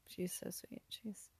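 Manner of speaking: soft, whispered doting; tender whisper. Real, not acted. Doting on her friend's baby in a tender whisper.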